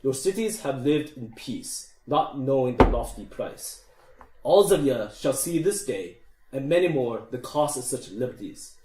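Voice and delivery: lightly voiced dwarf king with a bad Scottish accent; deep booming king. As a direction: give a measured speech as a dwarf king rallying recruits. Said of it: "in a deep, booming voice".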